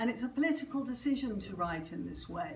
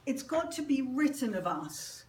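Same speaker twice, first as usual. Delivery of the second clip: measured poem recital with deliberate pauses; poetry reading. Acted. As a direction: read it out as verse, line by line. Reads own poem aloud.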